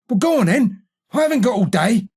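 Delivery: testy and impatient. Acted. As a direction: hurry them along. Impatiently hurries the newcomer.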